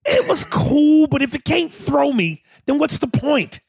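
hammed-up shouted complaint; mock shout. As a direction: yell it like the pony let you down. Mock outrage about a gentle pony.

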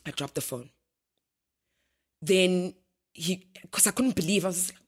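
usual speaking voice

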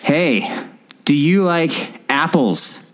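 put-on playful Boston movie-quote accent; Good Will Hunting accent. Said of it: "that's Good Will Hunting accent".

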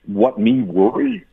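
slow, high, mock-carefree drawl. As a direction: play it like nothing matters. Mocking carefree dismissal.

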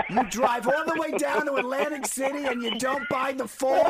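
mock his mom's disbelief in a high, drawn-out singsong; imitating his mother. Son mimicking his mother scolding him about the dice, hammed-up singsong. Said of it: "She goes".

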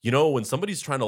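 huffy lecture. Retold or imitated. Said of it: "breaks character and goes".

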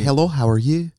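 put-on a light French Canadian accent on Hello; lightly voiced Quebec greeting. Host is asked for a French Canadian voice, light Quebec accent. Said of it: "do a French Canadian voice".

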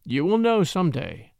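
slow and husky; a slow husky promise. Acted. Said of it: "he said huskily".

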